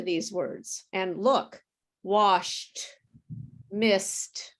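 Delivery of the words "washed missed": "washed" and "missed" each ending in a crisp T; "washed", "missed" apart, the ED heard as T; final T sound. Shown as a demonstration. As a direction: say "washed" as "washt", "missed" as "mist". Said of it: "There's a T sound".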